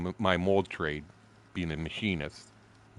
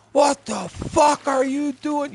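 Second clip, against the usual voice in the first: long, high, loud bellow; boss yelling; 5 dB louder, slower than usual. Retold or imitated. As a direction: drag it out like yelling across a dock. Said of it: "you could hear him yell".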